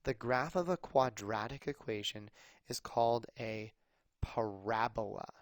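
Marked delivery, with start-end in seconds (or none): 4.2-5.3 parabola with stress on the second syllable, pa-RA-bo-la; US pronunciation. Shown as a demonstration. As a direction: say parabola as pə-RAB-ə-lə, hit the ra. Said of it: "Emphasis on the ra".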